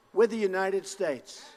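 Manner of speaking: slow, proud shout to the crowd; rally shout. Real, not acted. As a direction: declare it like a battle cry. Rally crowd, repeated slogan.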